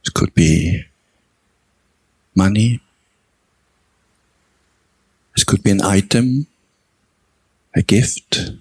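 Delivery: measured meditation guidance with long pauses between phrases; guided meditation. Real, not acted. Teacher guiding meditators to recall their own generosity, unhurried meditation delivery. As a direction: guide them gently through the reflection, phrase by phrase.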